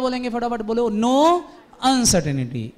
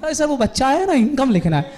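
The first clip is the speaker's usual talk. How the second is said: insisting protest; 4 semitones higher, 4 dB louder than usual. Acted. Deepak answers back in the quarrel.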